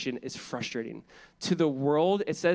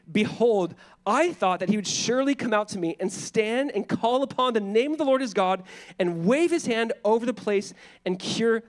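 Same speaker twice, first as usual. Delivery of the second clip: angry reading; 5 semitones higher than usual. Retold or imitated. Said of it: "was angry".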